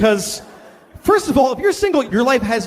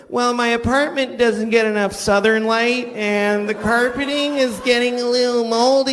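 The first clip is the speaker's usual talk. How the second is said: whiny single person. Retold or imitated. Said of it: "They're like".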